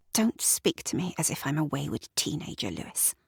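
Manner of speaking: voiceless, fast, icy rebuke; whispered warning to husband; cold whisper. Acted.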